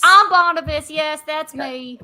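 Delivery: mild dwarven guard voice; Barnabas. Acted. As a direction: introduce yourself proudly as the mall cop. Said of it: "My accent is going to change".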